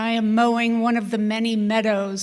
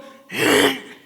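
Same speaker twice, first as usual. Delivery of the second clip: harsh mimicked mower clatter; imitated blade noise; 3 semitones higher, 4 dB louder than usual. Storyteller mimics mower blades hitting a rock, imitated blade noise. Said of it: "I hear the unmistakable".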